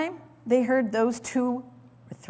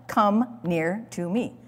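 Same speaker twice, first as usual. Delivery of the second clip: direct command; slower than usual. Shown as a demonstration. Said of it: "A direct command".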